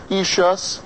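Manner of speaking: ishus said short and quick. Shown as a demonstration. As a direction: clip the ishus fast. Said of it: "the ishus goes quickly".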